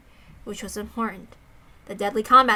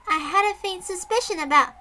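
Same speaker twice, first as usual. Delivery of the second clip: Sadako voice; 6 semitones higher than usual. Acted. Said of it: "what was my voice for Sadako?".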